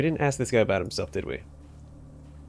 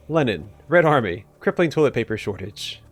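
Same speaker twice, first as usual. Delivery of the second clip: involuntary shouted outburst. Acted. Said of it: "I started screaming some of the words".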